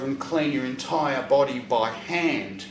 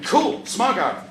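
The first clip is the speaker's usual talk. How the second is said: high slow dopey satisfaction; 7 semitones higher, 3 dB louder, slower than usual. Retold or imitated. Drugged satisfied thought.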